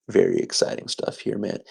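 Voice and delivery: breathy whispered aside, half to himself. Shown as a demonstration. Vlogger whispering his excitement to viewers, softly. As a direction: hush it like a secret thrill. Hushed take then repeated aloud.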